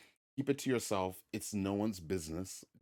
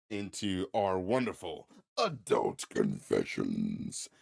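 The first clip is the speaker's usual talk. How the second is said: slow demonic growl; slow possessed-sounding intro; 4 dB louder, slower than usual. Acted. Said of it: "I said it in a demonic voice".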